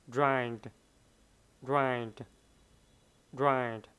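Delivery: ride, the d said gently, not dropped; soft final d. Shown as a demonstration. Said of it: "Âm đờ mình phát âm rất là nhẹ".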